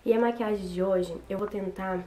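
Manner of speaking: hoarse, worn voice from a cold. Real, not acted. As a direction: talk through a cold, voice rough and tired. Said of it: "Desculpa pela voz, que eu tô um pouco gripada".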